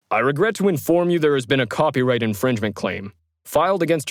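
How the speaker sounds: formal, firm legal-department voice; authoritative official. Acted. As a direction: deliver bad news with cold authority. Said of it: "more authoritative voice came on the line".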